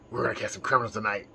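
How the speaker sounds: low, fast Batman line. Pretend. Joking vlogger plays Batman hunting criminals. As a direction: growl it like Batman on patrol. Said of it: "he's Batman, right?".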